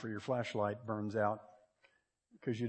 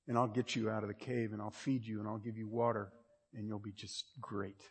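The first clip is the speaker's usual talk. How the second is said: guiding voice. Acted. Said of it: "that voice said".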